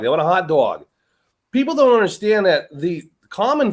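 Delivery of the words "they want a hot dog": light East Coast accent on hot dog; a touch of mock East Coast speech. Shown as a demonstration. Host repeats the hot dog example, East Coast accent. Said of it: "they go up that, that, that accent".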